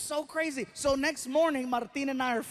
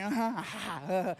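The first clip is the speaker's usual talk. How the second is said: jaded uh-huh. Retold or imitated. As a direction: humour him without interest. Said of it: "She's like".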